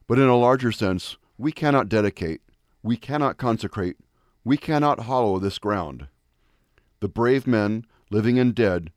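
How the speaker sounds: measured, solemn oration; formal speech. Acted. Speaker reciting the Gettysburg Address, solemn and measured. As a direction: deliver it like a memorial address.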